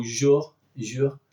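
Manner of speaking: jour begun with a voiced zh; French j sound. Shown as a demonstration. Showing learners the French word for day, voiced zh. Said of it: "that starts with this j sound".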